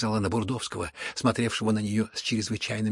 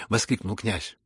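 ordinary delivery, nothing marked

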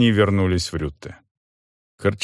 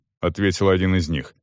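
usual speaking voice

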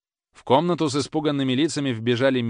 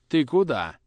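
sudden call; 4 semitones higher, 4 dB louder than usual. Acted. Father stops the boy.

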